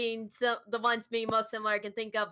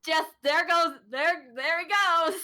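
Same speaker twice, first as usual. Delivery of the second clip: laughing play-by-play, pitched up; real amusement; 5 semitones higher, 5 dB louder than usual. Real, not acted. Friend recalling someone falling off his chair, laughing. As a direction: giggle through a mock commentary.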